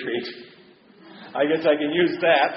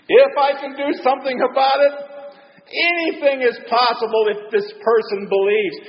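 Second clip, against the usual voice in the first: emphatic Jesus; 5 semitones higher than usual. Acted. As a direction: throw the man's doubt back at him. Jesus answering the father.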